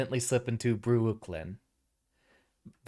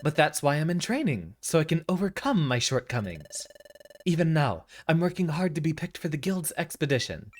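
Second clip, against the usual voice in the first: higher, stammering timid voice; timid pleading; 5 semitones higher than usual. Acted. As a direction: stutter it out nervously. Timid character protests.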